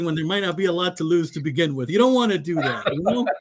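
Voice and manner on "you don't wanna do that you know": joking warning, pitched higher; mock-squeaky, higher-voiced warning; voice going up. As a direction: raise the pitch for a wincing caution. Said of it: "Voice goes up a few octaves".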